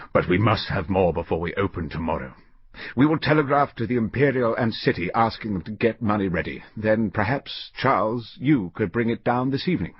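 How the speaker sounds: a lightly voiced old banker, calm and firm; Crosby giving orders. Old Crosby instructs his partner Charles, calm and firm.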